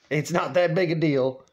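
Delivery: full-voiced, deliberate placating; imitated son's steady insistence; firm reassurance. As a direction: state it evenly to settle someone. Dad repeats it more firmly.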